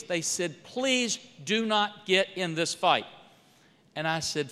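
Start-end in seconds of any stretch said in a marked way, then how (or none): 0.6-3.1 slow, drawn-out plea; retold plea. Staff beg congressman to avoid the fight, slow pleading. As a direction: stretch the plea out word by word. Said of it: "They told me and pleaded with me".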